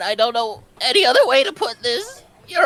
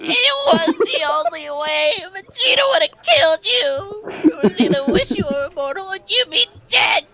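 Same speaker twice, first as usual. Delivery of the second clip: tearful, higher pleading voice; crying; 6 semitones higher than usual. Acted. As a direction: plead through tears. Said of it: "his crying voice".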